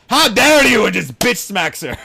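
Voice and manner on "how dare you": monster's indignant cry. Retold or imitated. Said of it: "the thing's in her face and goes".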